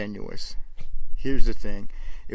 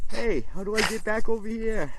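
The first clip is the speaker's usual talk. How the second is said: higher, playful dog voice; voicing the dog; 8 semitones higher than usual. Owner voices his chihuahua's barks, light higher dog voice. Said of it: "barking at me and, like".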